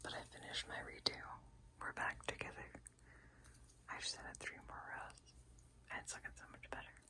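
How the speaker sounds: hushed, very quiet, barely voiced whisper. Late at night, giving a progress update on a finished redo, whispering. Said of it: "so I'm whispering".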